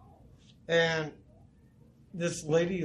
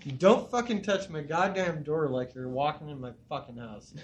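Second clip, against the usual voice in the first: retold angry rant; 3 semitones higher than usual. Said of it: "I was pissed".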